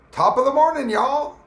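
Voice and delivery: sudden high, loud jokey Irish hello; mock Irish greeting. Streamer greets his chat in a mock Irish cheer, high and loud. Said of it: "I'm an Irish without the accent".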